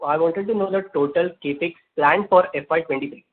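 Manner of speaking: loud, insistent restatement of a question; repeating to be heard. Real, not acted. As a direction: say it loudly so the listener catches it. Repeats question after misheard.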